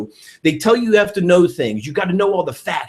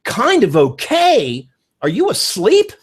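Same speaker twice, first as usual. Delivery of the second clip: kind of okay stretched slowly, then up high; mock disbelief; 5 semitones higher, 3 dB louder, slower than usual. Teasing a friend who found it only okay, mock disbelief. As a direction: tease the lukewarm friend. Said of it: "if you say to me".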